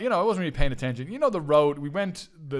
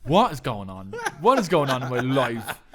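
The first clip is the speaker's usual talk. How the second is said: laughing, louder what is going on; laughing disbelief; 3 dB louder than usual. Retold or imitated. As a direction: laugh through the question. Exasperated laughing at absurdity.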